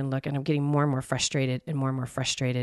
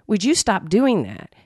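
louder, slower mock snap; snappy demand; 4 semitones higher, 5 dB louder, slower than usual. Imitating a sharp partner telling her to stop. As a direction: snap it like an annoyed partner, lightly. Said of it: "instead of going".

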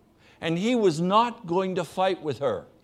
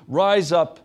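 commanding call; 8 dB louder than usual. Acted. Jesus commanding the paralyzed man.

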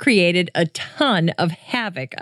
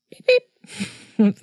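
beep sound effect; 5 semitones higher than usual. Shown as a demonstration. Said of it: "Here's the blooper sound effect".

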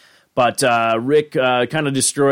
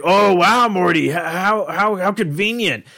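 higher put-on voice, stammering mock amazement; Rick; 7 semitones higher than usual. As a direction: feign amazement, stumbling on "how". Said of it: "I just love how Rick is like".

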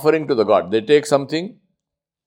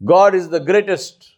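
slow declaration; 5 semitones higher, slower than usual. Shown as a demonstration. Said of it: "let me say the same thing in two languages".

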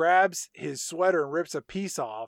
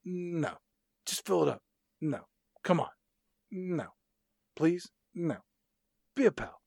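mock begging back and forth. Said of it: "He's like".

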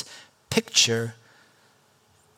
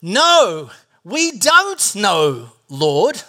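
Thomas protesting; 4 dB louder, much slower than usual. Retold or imitated. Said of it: "Thomas said".

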